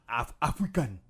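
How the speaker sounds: lightly attempted African accent. Showing co-host his African accent, which sounds Haitian. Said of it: "every time I do an African accent".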